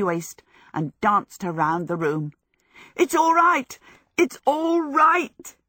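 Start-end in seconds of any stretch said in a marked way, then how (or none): 2.9-3.8 high, loud, elated cry; joyful shout. A narrator's reading. Michael dances Sophie round the room, shouting joyfully. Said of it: "he shouted joyfully". 4.2-5.6 high, loud and stretched with glee; drawn-out joyful shout. A narrator's reading. Michael whirls Sophie round, long joyful shout. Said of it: "he shouted joyfully".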